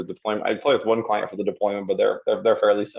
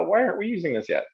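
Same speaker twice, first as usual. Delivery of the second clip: mock disbelief; 10 semitones higher than usual. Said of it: "it's kinda like".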